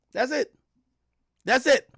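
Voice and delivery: high, sharp exasperated repeat; exasperated "that's it". Real, not acted. Streamer scoffing at the text, high and exasperated. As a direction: throw it up high in disbelief. Mocking the typical complaint.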